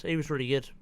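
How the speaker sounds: mock praise in a quiet, dry voice; deadpan sarcasm. Real, not acted. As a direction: praise him with a straight face, not meaning it. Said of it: "Not a hint of sarcasm".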